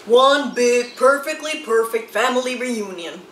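gather everyone for a photo; excited Moose. Acted.

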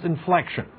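"inflection" said with a clear falling tune, dropping away. Shown as a demonstration. Teacher shows students a falling declarative tone. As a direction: let "inflection" fall down to a flat declarative close. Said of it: "what happened to the tone of my voice".

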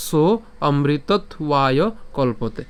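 slow shloka line, broken after the t; drawn-out verse ending; alternative recitation. Shown as a demonstration. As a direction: recite the closing phrase deliberately, splitting "অমৃতত্বায়". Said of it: "অথবা".

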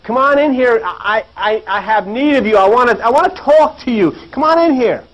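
imitating a hail from the shore; calling out from shore. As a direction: call over to the boat without really shouting. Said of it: "he yells out to these guys in the boat".

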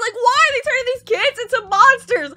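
high-pitched rising outrage; distressed protest. Real, not acted. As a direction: plead against the injustice. Protesting what happens to kids.

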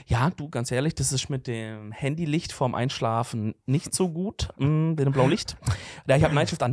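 lightly mock a preachy party guest; know-it-all party guy. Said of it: "Dieser Typ, der auf einer Party dann sagt".

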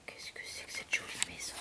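hushed amazement at the pretty house; awed whisper. Acted. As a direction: marvel under your breath. Character marvels at new house.

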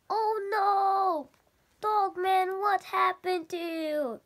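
high, loud gasp of alarm; shocked cry. Acted. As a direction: sound shocked and worried. Character shocked seeing Dogman.

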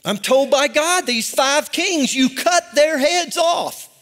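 worked-up, drawn-out command; excited preaching. Real, not acted. Preacher retelling God's order about five kings, excited preaching. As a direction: preach it carried away, leaning on each phrase. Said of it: "I'm sorry, I got excited".

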